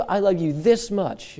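tender parent. Retold or imitated. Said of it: "you have told your children this one".

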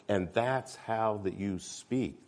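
slow, labored speech; halting, drawn-out imitation; imitated speech impediment. Shown as a demonstration. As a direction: drag the words out as if struggling to speak. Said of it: "That is how he spoke".

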